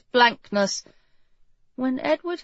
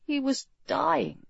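hushed realisation; 5 semitones higher, 6 dB quieter than usual. A narrator's reading. King dwells on his death.

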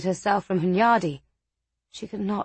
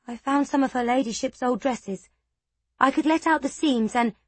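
timid maid voice; 5 semitones higher than usual. A narrator's reading. Maid's voice, hopeful.

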